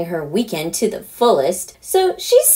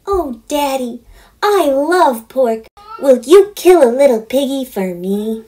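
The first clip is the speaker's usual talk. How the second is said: put-on excited preteen girl; 5 semitones higher, 3 dB louder than usual. Daughter thrilled by Daddy's plan, high and gushing. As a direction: squeal with delight like a spoiled daughter. Heather voiced in story.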